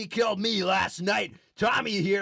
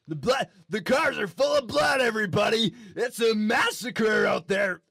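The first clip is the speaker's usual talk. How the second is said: hammed-up anchor shout. Anchor hyping gore on air.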